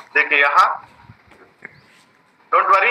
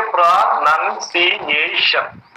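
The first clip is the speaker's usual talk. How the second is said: split into parts. Shown as a demonstration. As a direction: sound out प्रोनाउंसिएशन in five measured parts. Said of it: "there are five parts".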